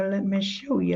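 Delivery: hoarse, worn-out voice; raspy voice. Real, not acted. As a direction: rasp through it, tired throat. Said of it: "listened to my raspy voice tonight".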